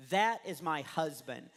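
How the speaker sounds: slow, deliberate imitated declaration; mock exasperation. Wife telling staring shoppers who he is, slowly exasperated. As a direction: spell it out word by word.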